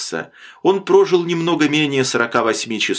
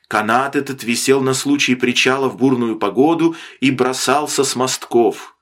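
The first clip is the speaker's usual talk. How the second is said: ordinary delivery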